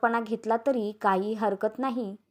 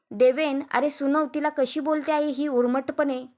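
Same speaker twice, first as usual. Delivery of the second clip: higher-pitched, mildly outraged appeal; आईची तक्रार; 4 semitones higher than usual. Acted. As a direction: urge your son to scold his wife. आई मुलाकडे सुनेची तक्रार करते. (नाराज आईचा चढलेला सूर)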